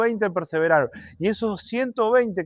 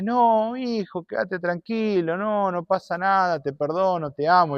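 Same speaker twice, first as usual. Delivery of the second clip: tender forgiving mother; 2 semitones higher, 5 dB quieter, slower than usual. Acted. Madre perdona tiernamente.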